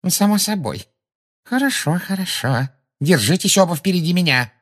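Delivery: high-pitched, mildly anxious instructions; somewhat uneasy. A narrator's reading. Umbridge orders the children to walk ahead, somewhat uneasy. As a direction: give orders with a touch of nerves. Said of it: "с некоторым беспокойством".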